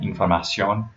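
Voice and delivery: "información" with the O before the N stressed; Spanish "información", stressed on ción; stress on final O. Shown as a demonstration. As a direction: land on the last syllable of "información". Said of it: "the O just before the N sound".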